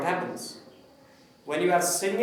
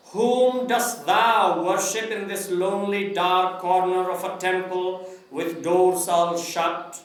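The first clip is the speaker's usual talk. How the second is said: poem recitation. Shown as a demonstration. Teacher models a Tagore poem for the class, declaimed recitation. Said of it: "I will recite it first. Listen to it carefully".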